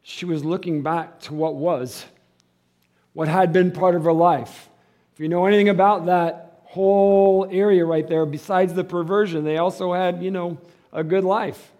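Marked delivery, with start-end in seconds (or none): 3.1-11.7 loud, high, building preaching; fiery preaching. Acted.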